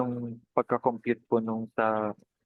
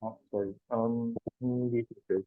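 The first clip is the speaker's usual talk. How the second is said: muffled, nasal voice through a bad mic; 4 dB quieter than usual. Real, not acted. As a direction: talk as if through a hand over the mouth. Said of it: "parang muffled yung voice mo".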